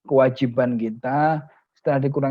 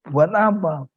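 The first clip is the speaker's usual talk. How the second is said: curious host; 5 semitones higher, 5 dB louder, slower than usual. Acted. Rich friend questions him.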